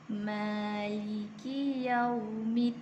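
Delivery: slow, measured tajwid recitation; Quran recitation. Shown as a demonstration. Teacher recites the second verse for students. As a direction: chant it slowly with long held vowels. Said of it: "ayat yang keempat".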